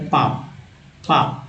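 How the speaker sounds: पाप said with the L dropped; पाप, no L sound at all; silent L. Shown as a demonstration. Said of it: "एल जो है silent है". (एल के बिना पाप)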